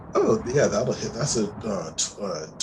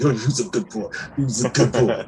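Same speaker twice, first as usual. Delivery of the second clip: puppy talk; 4 dB louder than usual. Acted. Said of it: "playing with the puppy".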